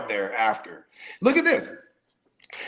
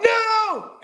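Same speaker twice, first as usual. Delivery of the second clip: high, drawn-out yell of "No!"; imitated yell; 4 dB louder than usual. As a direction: cry out like a despairing coach. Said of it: "he yells out".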